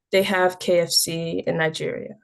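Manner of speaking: deliberate, firmly projected poem opening; poem recitation. Acted. Poet opening a poem about visiting Nigeria, deliberate recitation. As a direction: announce the title, then launch into the verse.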